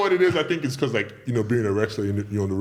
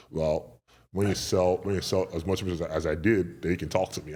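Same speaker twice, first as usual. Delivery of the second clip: lightly voiced Kevin; 5 semitones lower, 4 dB quieter than usual. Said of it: "He just goes".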